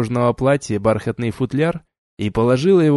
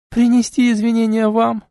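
mocking laugh; 11 semitones higher, 3 dB louder than usual. A narrator's reading. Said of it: "расхохоталась девушка".

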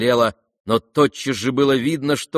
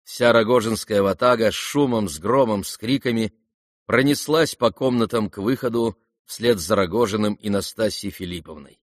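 ordinary delivery, nothing marked

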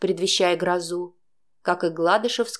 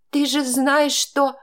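tearful plea; 6 semitones higher, slower than usual. Acted. Heroine pleads in tears.

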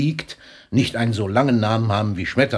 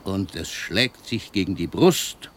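poem recitation. Acted. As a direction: let each image of the sea land, unhurried. Poet recites his sea poem.

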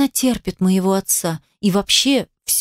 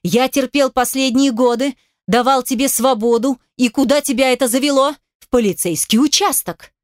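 angry tirade; 5 semitones higher than usual. Acted. Father's tirade continues.

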